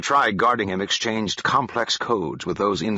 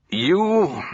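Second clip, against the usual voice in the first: a higher, louder admiring "You"; genuine appreciation; 9 semitones higher, 4 dB louder than usual. A narrator's reading. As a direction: lift the word in honest admiration. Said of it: "Ruinek said in genuine appreciation".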